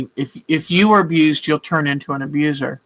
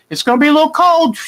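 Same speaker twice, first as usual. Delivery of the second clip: put-on high, fast, sing-song warning to the baby; gentle warning to baby; 11 semitones higher, 4 dB louder, much faster than usual. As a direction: chirp it playfully like telling a baby. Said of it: "He tells him".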